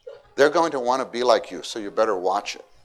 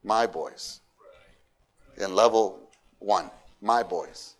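put-on proud my boys; 3 semitones lower, slower than usual. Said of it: "start talking like this".

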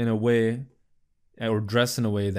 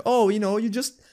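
mock casual; 7 semitones higher than usual. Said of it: "trying to make it look like".

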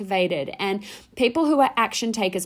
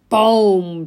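loud, drawn-out boom; emphatic boom; 6 dB louder than usual. Shown as a demonstration. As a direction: let it burst out like a blast. Exclaims to show feeling fired up.

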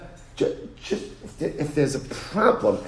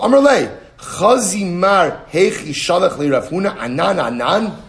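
higher and louder, outraged plaint; indignant complaint; 4 semitones higher, 5 dB louder than usual. Retold or imitated. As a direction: complain loudly, offended. Rav Anan complains, indignant.

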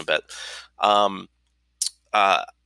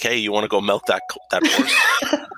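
teasing. Retold or imitated. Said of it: "I'd be like".

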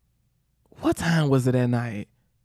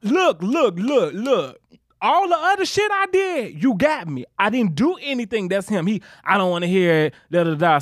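pleading with the teacher, partly raised; lightly acted protest; 4 semitones higher than usual. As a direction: argue your innocence with a high edge. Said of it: "this is the one time I'm like".

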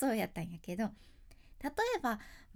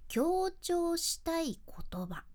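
whisper; 5 semitones higher, much slower than usual. Shown as a demonstration. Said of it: "強調したいなーって思う言葉やね".

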